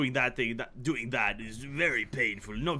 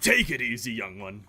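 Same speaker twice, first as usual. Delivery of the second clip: loose British; 3 semitones lower than usual. Pretend. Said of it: "if it's British anymore".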